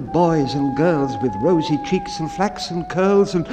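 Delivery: bright, rising and lively, carried by the music; excited. A narrator's reading. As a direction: read it like children tumbling after a tune. Children skipping after piper's music.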